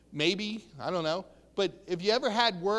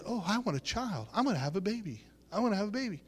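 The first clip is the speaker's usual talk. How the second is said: softer, understated inner voice; still small voice; 5 dB quieter, much faster than usual. Acted. Preacher voicing the still small voice inside you, softly. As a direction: drop the volume as if thinking it privately. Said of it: "God is that still small voice inside of you".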